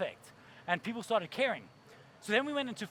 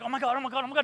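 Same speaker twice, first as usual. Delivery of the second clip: panic; 4 semitones higher, 4 dB louder, much faster than usual. Acted. Acting a woman fleeing attacker.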